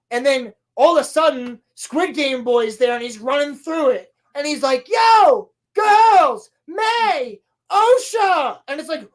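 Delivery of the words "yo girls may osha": loud, high call across the room; urgent yell. Retold or imitated. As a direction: shout their names to get their attention. Character calling out to girls.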